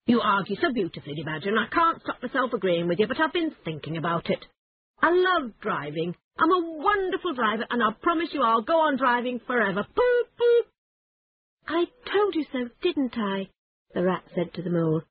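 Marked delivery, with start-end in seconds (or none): 0.0-9.8 fast, rising, carried away; gleeful boasting. Acted. Toad boasts about driving. 9.8-10.7 high, loud gleeful horn imitation; car horn toot. 11.7-13.5 smug, higher I-told-you-so. Acted. Rat to Mole, vindicated.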